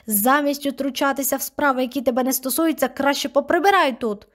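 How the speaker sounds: grandmother yelling, high and loud. Acted. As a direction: scold her at full volume. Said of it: "репетувала вона".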